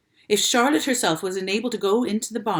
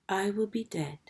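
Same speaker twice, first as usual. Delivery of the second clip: whisper; 7 dB quieter than usual. A narrator's reading. Dying spider's words.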